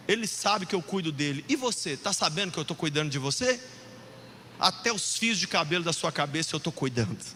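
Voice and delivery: low, gentle fatherly reassurance; tender reassurance. Acted. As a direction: speak low, as a caring father. God reassuring the listener tenderly.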